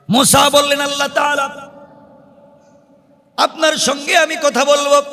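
high, ringing sermon delivery; preacher in a high, urgent pitch; impassioned preaching. Acted. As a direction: raise the voice and preach each phrase out. Preaches at full force.

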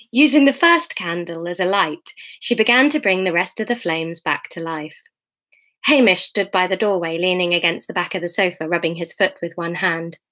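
measured audiobook reading; story narration. A narrator's reading. Reader to her online listeners, measured story narration. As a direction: read the novel aloud evenly. Reads the novel aloud.

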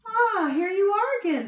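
high, bright greeting; cheerful welcome. Acted. Friendly ladybug welcoming the grouchy one back, high and loud. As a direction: welcome them back gladly.

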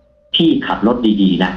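very slow, stretched goodbye; slow eerie parting words; drawn-out farewell. Retold or imitated. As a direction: linger over each word like a fading voice. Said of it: "ได้ยินอย่างไม่ค่อยชัดเจนนะ".

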